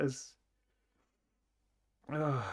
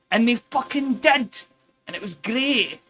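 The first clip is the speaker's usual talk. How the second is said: excited; 7 semitones higher, 5 dB louder than usual. Real, not acted. Excited punchline of the story.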